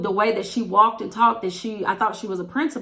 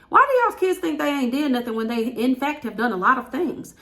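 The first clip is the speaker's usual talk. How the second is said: exasperated rant; 5 semitones higher than usual. Real, not acted. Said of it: "look at my eyes start twitching".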